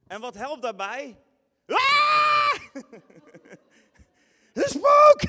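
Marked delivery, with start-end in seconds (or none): 1.7-2.5 very high, loud shriek of fright; terrified scream. Acted. Disciples scream when they see a figure on the water. 4.5-5.2 very high, loud panicked cry; terrified shout. Acted. Disciples cry out in fright at the figure on the water.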